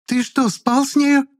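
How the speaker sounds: very high, slow shrieked question. A narrator's reading. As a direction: shriek it in outrage. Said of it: "завизжала Клара".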